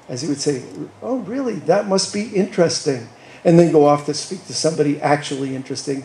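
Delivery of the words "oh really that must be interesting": mock condescending lawyer, higher on the oh; patronizing. Lawyer at a party brushing off a teacher, mock patronizing. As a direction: imitate a lawyer's pitying brush-off. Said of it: "pitying, patronizing look".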